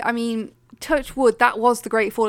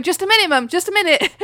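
flustered plea; 8 semitones higher, 5 dB louder than usual. Retold or imitated. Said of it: "and I'm going".

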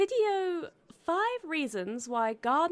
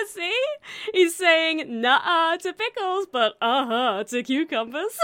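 excited explaining; 4 semitones higher, 7 dB louder, slower than usual. Acted. Explaining a meme, amused.

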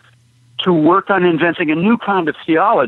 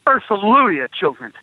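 rally the congregation with a hallelujah; mock-revival shout, held back in volume; preacher's shout; 5 semitones higher, faster than usual. Shown as a demonstration. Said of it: "we ch-, we shout".

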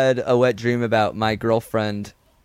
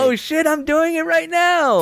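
high, slow excited shout; mock shout; slower than usual. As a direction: yell it out in mock glee.

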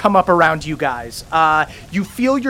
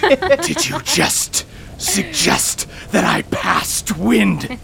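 offended; slower than usual. Acted. Offended queen in character.

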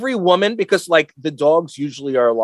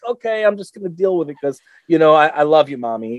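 poor resigned dog. Acted. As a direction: give in like a loyal pet. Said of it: "that poor dog is like".

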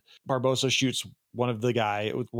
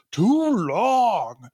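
higher, louder hammy yell of a first mate; mock yell; 9 semitones higher, 6 dB louder than usual. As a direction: bark it out like a bad pirate actor. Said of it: "He just yells".

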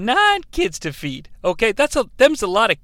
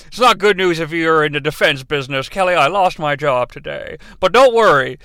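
a hint of old-Hollywood father breaking bad news; Jimmy Stewart impression. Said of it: "that Jimmy Stewart impression".

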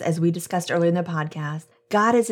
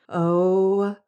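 taut with pain. A narrator's reading. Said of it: "her voice was taut with pain".

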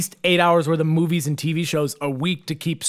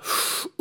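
imitated gasp; 8 dB quieter than usual. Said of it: "she let out an audible".

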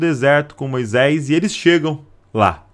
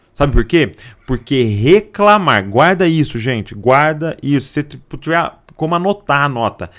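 usual speaking voice

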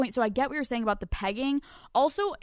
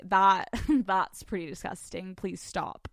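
mock disgusted; 3 semitones lower, slower than usual. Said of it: "me usually being like".

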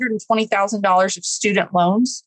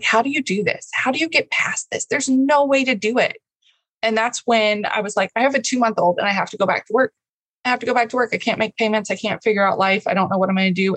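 retold despair; 2 semitones higher, faster than usual. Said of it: "I was just in tears".

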